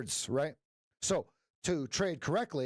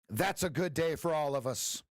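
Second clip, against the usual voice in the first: ordinary talk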